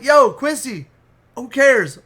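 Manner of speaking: retold impatient shout; calling out. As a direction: cut in loudly to get his attention.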